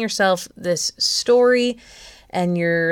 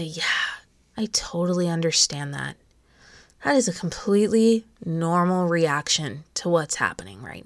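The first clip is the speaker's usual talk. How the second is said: softer, understanding reassurance; quietly validate a scared child's feelings; comforting a child; 4 dB quieter than usual. Acted. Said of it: "like you would comfort a child".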